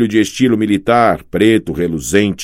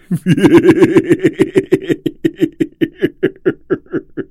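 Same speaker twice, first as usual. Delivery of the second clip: gargalhada de vilão longa e aguda; risada maligna de monstro; 10 semitones higher than usual. Acted. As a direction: ria como um monstro triunfante. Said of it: "O doutor Espinheiro riu". (gargalhada maligna)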